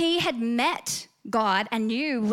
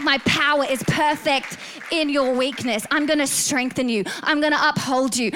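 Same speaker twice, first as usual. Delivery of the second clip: building from firm to louder, urgent preaching; impassioned fatherly promise; 4 dB louder than usual. Acted. God reassuring us like a good father, impassioned. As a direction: drive each promise home with rising force. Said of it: "like a good father and say".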